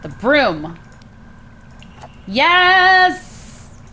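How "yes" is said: sharp high cry of triumph; excited yes. Real, not acted. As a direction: shout it like you just won. Cheering at the broom.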